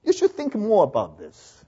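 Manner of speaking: slow, measured professor imitation; lightly voiced boss brushing off a student; professor's verdict. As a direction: hand down the verdict slowly. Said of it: "你问他：“老板怎么样啊？".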